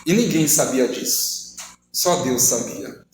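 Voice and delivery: slow, low, weighted confession; understated retold grief. Woman telling her deepest pain, slow understated sorrow. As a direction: let each phrase sink slowly, lightly pained.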